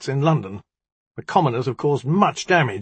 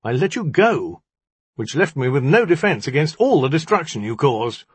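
higher, aggrieved outburst; heated cry; 6 semitones higher, 4 dB louder than usual. A narrator's reading. Magician blames the djinni for his ruin, crying out. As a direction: pour out the grievance, pitched up. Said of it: "he cried".

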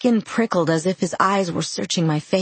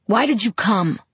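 angry demand; 3 semitones higher than usual. Acted. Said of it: "he demanded".

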